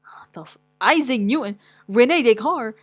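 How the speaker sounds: loud stunned what the fuck; loud disbelief. Real, not acted. Vlogger seeing Newton in his type list, loudly stunned. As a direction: blown away by the names. Shocked at famous names.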